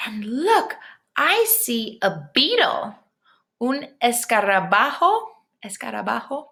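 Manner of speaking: slow, wondering picture-book voice; reading to children. Acted. Teacher reading a bug book aloud to her class, full of wonder. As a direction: read it out like a picture book to little kids.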